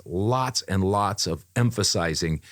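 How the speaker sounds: "lots" stretched out slowly; slow, weighty hit on each "lots"; stress on LOTS. Real, not acted. Telling co-host about picky director, stressed LOTS. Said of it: "I'm not overemphasizing this".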